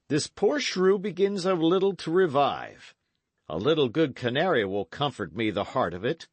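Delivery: put-on a gruff knight explaining himself to the boys; Sir Daniel. A narrator's reading.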